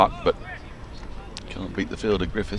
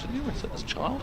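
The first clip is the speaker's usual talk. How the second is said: mock high teasing; 9 dB quieter than usual. Teasing a co-host.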